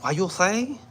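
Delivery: put-on high, rising stereotyped Asian accent; mock Asian accent. Waiter as the white guy expected him, mock Asian accent. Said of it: "He thought the waiter was gonna be like".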